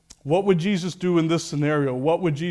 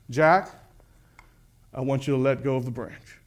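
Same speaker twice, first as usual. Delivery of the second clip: calm instruction; 5 semitones lower than usual. Acted. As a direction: tell him gently but firmly. God's voice calmly instructs Jack.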